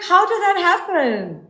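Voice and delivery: very high, drawn-out mock disbelief; incredulous imitation. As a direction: imitate a flabbergasted partner, slow and squeaking high. Retelling partner's disbelief at broken door.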